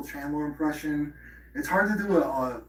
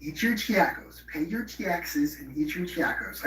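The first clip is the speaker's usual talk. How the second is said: higher, slow mocking catchphrase voice; Brendan Schaub impression; 4 semitones higher, slower than usual. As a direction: drag out the catchphrase like a goofy fighter. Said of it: "Brendan Schaub has that's iconic".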